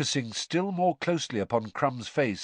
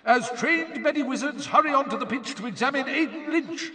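high-pitched stadium commentator; match announcer's high yell; Bagman yelling; 13 semitones higher than usual. A narrator's reading. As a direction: call it out to the whole crowd, high and projected. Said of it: "yelled Bagman's voice".

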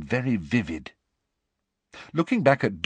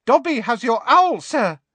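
high squeaky house elf; 6 dB louder than usual. Acted. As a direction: squeak it eagerly. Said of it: "said a squeaky voice".

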